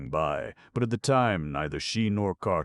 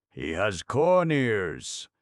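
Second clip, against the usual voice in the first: higher, louder, slow astonished yell; shrill yell; 6 semitones higher, 6 dB louder, much slower than usual. Acted. Chief scribe spotting corn ears, shrill yell. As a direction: shout it out in shock. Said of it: "yelled Ipti shrilly".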